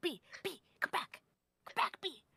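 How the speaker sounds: hushed, breathy yelling in a whisper. Retelling calling B to come back, as a retold yell-whisper. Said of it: "I'm yelling, whispering".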